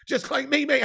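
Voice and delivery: rough gravelly voice. Real, not acted. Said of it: "makes me have a gravelly voice".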